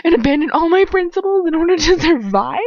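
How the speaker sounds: high, loud, anguished cry; loud, tearful outcry; crying in agony. Acted. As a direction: plead through tears. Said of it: "I cry, agony".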